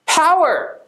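high, punchy catchphrase call; pumped-up signature shout. Acted. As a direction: punch it out like a show slogan.

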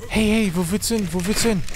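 hey, don't run off; calling after it. Real, not acted. Calling after a fleeing dino.

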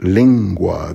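lingua with NG as in anger. Shown as a demonstration. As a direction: say lingua slowly, N velar before G. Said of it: "sort of an N G in anger".

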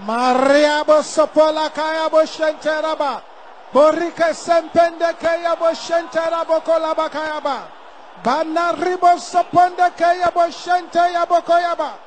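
rapid murmured tongues prayer; speaking in tongues. Acted. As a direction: pray in tongues under your breath. Preacher prays in tongues.

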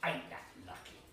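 slow, loud greedy waiter's pitch; sly waiter. Acted. Waiter claiming the boy's chops, sly and greedy. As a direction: sell it like a sly glutton.

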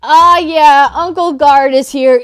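loud, hyped-up party voice. Acted. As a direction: announce it like a hype man. Hammed-up arrival of the uncle.

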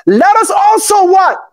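preacher calling to the congregation. Real, not acted. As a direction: pitch it up and out for them to finish. Call for congregation to finish.

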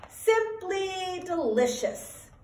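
high, slow, drawn-out relish; slow, high-pitched relish after a tasty bite; savouring delight. Acted. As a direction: savour each word in a high, sing-out voice. Beth tasting her sandwich.

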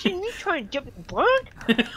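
laughing through the words. Real, not acted. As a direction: repeat it while cracking up. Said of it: "laughing repeat of the line".

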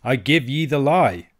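angry challenge. A narrator's reading. Piper Allen challenging his rival after a slight, angry retort. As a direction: throw the accusation back with heat. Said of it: "the blood starting to his face".

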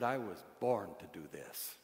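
low, soft retold reply; quiet certainty. Four-year-old's reply to the preacher, retold quietly. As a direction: drop right down and state it simply. Boy's quoted reply after the shouting.

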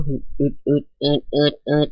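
short puffing grunts in a row; repeated effort grunts, lightly done; imitated grunting sound. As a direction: mimic the straining noise. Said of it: "อาจจะยินเสียงคำว่า".

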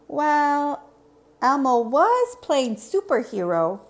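high, loud puppet-like Elmo; Elmo the playful monster. Acted. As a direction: play a high-voiced, eager Elmo.

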